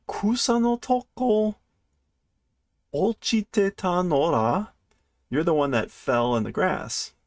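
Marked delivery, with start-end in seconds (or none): 0.1-4.7 lightly voiced little kitten; squeaky, curious kitten asking; high kitten voice. Kitten character voice.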